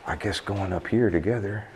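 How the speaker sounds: muffled behind a dust mask; talking through a mask; through a face mask. Real, not acted. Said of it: "Reason why I'm wearing a mask right now".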